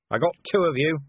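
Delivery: shouted. Acted. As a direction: shout it down at the wolves. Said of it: "he shouted".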